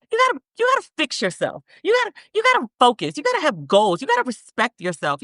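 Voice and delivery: high, fast, urgent advice; rising rant. Real, not acted. Rapid-fire life advice rant.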